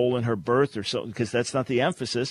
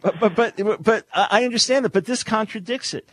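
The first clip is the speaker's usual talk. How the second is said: incredulous laugh; 9 semitones higher, 5 dB louder than usual. Real, not acted. Host objects, laughing in disbelief.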